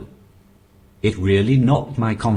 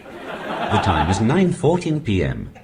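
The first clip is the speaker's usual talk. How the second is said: talking alarm clock. Pretend. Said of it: "I sound like the talking alarm clock".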